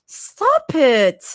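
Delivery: high, loud hiss through gritted teeth. A narrator's reading. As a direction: bite it out through clenched teeth, embarrassed. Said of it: "Zoe hisses through gritted teeth".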